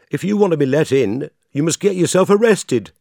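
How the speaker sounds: high, loud gatekeeper bark; shouting doorkeeper. Acted. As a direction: call out harshly through the door. Doorkeeper shouts through panel.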